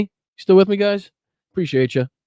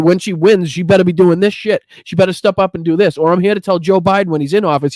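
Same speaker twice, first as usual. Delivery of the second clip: heated rant. Real, not acted. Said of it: "Anyway, rant over".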